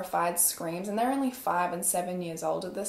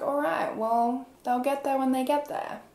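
higher-pitched, lightly mimicked dismissive dispatcher; unconcerned dispatcher; 4 semitones higher than usual. Dispatcher doubting the social worker's emergency, lightly mock-dismissive. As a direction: brush the caller off in a raised imitation voice. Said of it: "not taking this call seriously".

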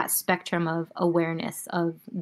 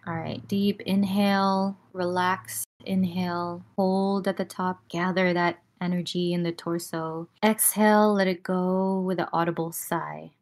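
guided breathing cues. Acted. Leads a breathing exercise.

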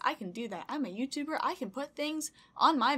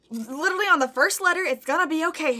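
mock self-consoling; 5 semitones higher, 8 dB louder than usual. Real, not acted. Steadying herself against tears.

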